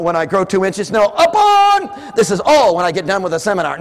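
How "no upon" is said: high, loud, slow upon; preacher's emphatic shout; shouted correction. Real, not acted. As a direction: hammer the word upon. Correcting excuses.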